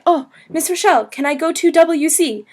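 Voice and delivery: high, lilting schoolkid request; imitating students. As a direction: lightly mimic a pupil's pleading question. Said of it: "my students would say".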